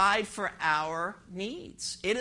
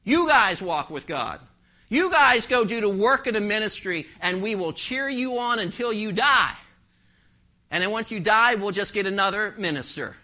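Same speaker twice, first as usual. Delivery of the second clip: mock cheerleaders; 4 dB louder than usual. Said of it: "the cheerleaders on the sideline saying".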